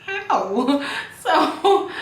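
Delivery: laughing through the words; breaking into a laugh mid-story. Real, not acted. Vlogger laughing at herself while telling the story. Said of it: "laugh heard".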